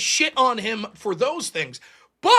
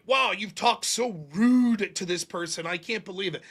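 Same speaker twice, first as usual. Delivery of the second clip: mocking tone police; 4 semitones lower, 5 dB quieter than usual. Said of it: "tired of the tone policing".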